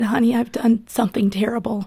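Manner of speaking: hushed, half-whispered tearful quote; retold crying husband. Wife retelling husband's phone call, hushed tearful whisper. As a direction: breathe it out like a broken husband.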